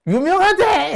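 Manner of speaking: high, teasing Busan dialect call; Busan friend. Retold or imitated. School friend teasing him on the phone, high Busan dialect. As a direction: tease him like a Busan mate. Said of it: "이러면서".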